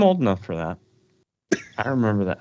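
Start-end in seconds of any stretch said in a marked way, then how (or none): 1.8-2.4 put-on high, creaky old man voice. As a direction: talk like an old-timer. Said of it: "Very good old man voice".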